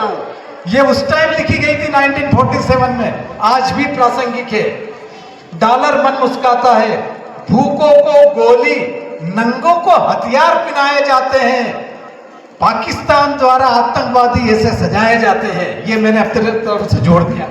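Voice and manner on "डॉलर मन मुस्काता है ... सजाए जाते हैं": emphatic declaimed Hindi verse; poem recitation. Acted. Reciting Partition verses to the audience, emphatic recitation. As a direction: declaim it, stretching the weighty phrases. Resumes verse after an aside.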